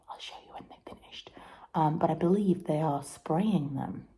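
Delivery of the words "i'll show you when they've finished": whispering. Real, not acted. Whispering early morning outside.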